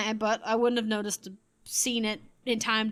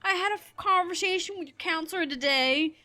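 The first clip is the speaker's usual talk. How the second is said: higher-pitched, retold teary mom; imitating teary giggling; 6 semitones higher than usual. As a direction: mildly mimic a mom holding back giggly tears. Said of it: "she's tearing up. She's giggling".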